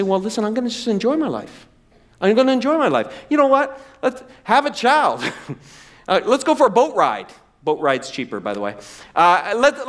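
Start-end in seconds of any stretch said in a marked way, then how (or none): 0.0-7.3 eager resolve. Acted. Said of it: "you lean and you say".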